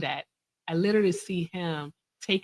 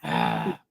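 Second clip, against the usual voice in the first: short annoyed growl; low irritated growl. Real, not acted. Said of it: "Did I just growl?".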